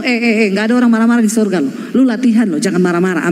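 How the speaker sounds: fast mock scolding of husband; hurried, teasing rebuke; a playful wife's quick reprimand. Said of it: "kalau suamimu marah ngomong".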